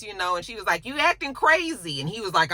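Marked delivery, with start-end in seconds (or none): 0.8-2.0 high-pitched mock accusation; imitating an exasperated woman; accusing retort. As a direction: throw it back at him, pitched up. Acted argument retort.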